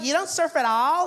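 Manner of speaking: put-on high, loud surfer-girl disbelief; California babe. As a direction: ask like an astonished beach girl. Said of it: "California babe".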